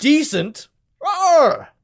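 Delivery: offended, angry yelling. Imagining the game character taking offense at "decent": offended character yelling. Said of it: "there's nothing like yelling silence".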